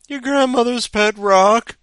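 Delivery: high, loud strained answer; hoarse cry. Acted. Contestant three answering through smoke and sweat, crying out hoarsely. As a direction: cry out urgently as a desperate contestant. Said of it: "she cried, hoarse from the smoke".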